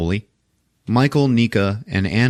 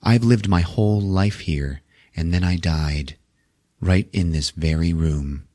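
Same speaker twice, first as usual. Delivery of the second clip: put-on spooky older lady; 3 semitones lower than usual. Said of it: "older blonde lady, and she's like".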